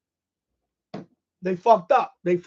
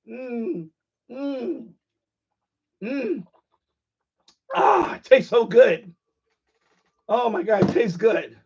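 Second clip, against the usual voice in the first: mock savoring; slower than usual. Drinking a pretend bottle of liberal tears, mock savoring. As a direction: pretend to taste something delicious.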